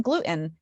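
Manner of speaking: "gluten" with a glottal catch for the T; Jersey "gluten", T swallowed; New Jersey pronunciation. Retold or imitated. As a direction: say glu'-in. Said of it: "because I was from New Jersey".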